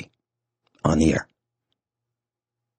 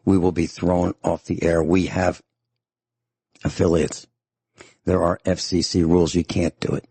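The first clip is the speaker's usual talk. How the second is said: normal talking voice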